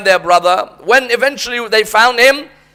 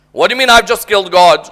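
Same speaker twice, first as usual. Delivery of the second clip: bold challenge. Retold or imitated. Son repeats the challenge.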